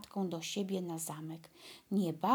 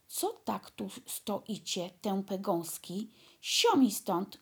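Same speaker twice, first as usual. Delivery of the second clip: dwarf shouting; slower than usual. Acted. Dwarf shooing off the staring sisters, building to a shout. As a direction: shoo the girls away with a final yell. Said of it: "krzyknął karzeł".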